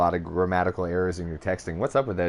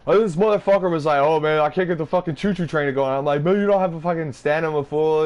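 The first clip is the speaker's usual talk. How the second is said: mock storytelling voice; 7 semitones higher, 4 dB louder than usual. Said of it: "he comes back with a story like".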